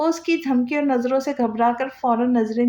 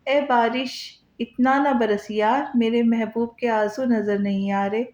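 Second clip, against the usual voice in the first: reciting a couplet. A narrator's reading. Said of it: "वो शेर बोलकर".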